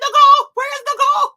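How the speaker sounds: hunting for her friend, calling her name loudly. Retold or imitated. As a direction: holler for her through the house.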